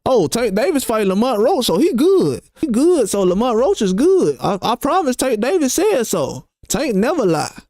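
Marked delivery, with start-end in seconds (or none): 0.0-4.4 mocking fans. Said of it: "need Tank Davis to tell me".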